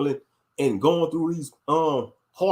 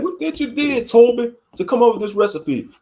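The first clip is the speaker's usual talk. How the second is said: high mocking slave master, pitched way up; a put-on plantation master voice; 6 semitones higher, 5 dB louder than usual. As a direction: sneer it out like the old master. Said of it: "Be like".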